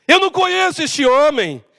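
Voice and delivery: firmly disown the man; emphatic denial, still controlled. Acted. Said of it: "Ele negou conhecer Jesus".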